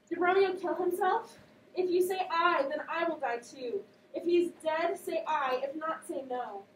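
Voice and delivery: high, loud desperate demand; urgent Juliet. Acted. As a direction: press the nurse for an answer.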